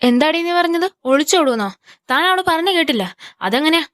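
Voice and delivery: shocked mother scolding her daughter; mother stunned by the elopement threat, scolding in anger; shocked angry outburst. Acted. Mother hears daughter will elope.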